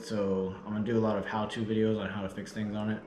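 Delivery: breathless after a long trip; out of breath. Real, not acted. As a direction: talk while catching your breath. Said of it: "I'm just out of breath".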